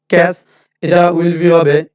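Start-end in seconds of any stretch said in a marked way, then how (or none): 0.1-0.5 "ক্যাস" with an unaspirated k; hard plain k in "ক্যাস"; wrong pronunciation shown. Shown as a demonstration. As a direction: cite the faulty "ক্যাস", no breath after k.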